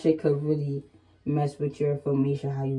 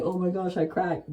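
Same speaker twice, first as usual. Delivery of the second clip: mocking men; 5 dB quieter than usual. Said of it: "They be like".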